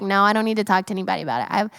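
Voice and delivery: quick, dismissive mock brush-off; fast, casual imitation of playing it off. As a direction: rattle it off like a guy shrugging. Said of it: "push it to the side and be like".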